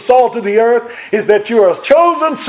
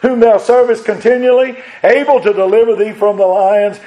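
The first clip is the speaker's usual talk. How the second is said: mild pleading cry that climbs and stretches at is thy God; lamentable cry; 2 semitones higher than usual. Retold or imitated. Preacher voicing the grieving king calling into the den, mild lament. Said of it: "he cried with that lamentable voice".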